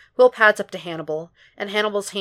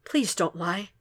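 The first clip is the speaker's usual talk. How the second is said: pleading; 4 dB quieter, slower than usual. A narrator's reading. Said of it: "begs nearly".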